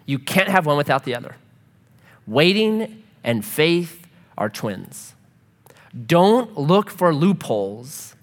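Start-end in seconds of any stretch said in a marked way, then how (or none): 2.3-5.2 slow emphatic. Shown as a demonstration.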